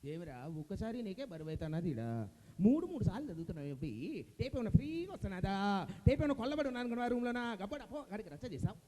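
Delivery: grumbling radio boss with a rising announcement; Jayaprakash Reddy impression. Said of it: "Jayaprakash Reddy గారు".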